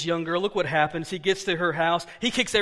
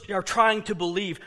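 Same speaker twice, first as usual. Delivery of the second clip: ordinary talk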